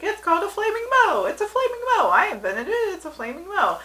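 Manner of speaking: high, insistent bartender impression; hammed-up, swooping insistence. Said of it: "Mo was like".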